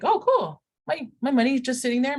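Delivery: high, lightly mock-delighted; pleased reaction. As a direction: play a happily surprised saver. Imagines a pleased account holder.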